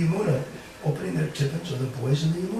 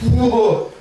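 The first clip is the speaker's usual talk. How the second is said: startled whoa; 5 semitones higher, 6 dB louder than usual. Acted. Krishna startled awake.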